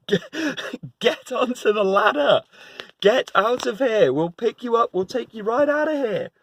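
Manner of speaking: a frantic call down from the chopper; helicopter rescuer. Retold or imitated. Helicopter crew yelling at the man on the chimney, high and urgent.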